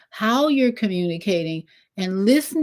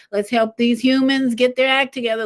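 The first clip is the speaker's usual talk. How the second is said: eager urging; 4 semitones higher than usual. Pretend. The moon urges, first take.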